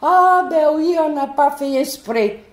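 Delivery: mock policeman excuse. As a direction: imitate the cop's flustered excuse. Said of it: "il dit".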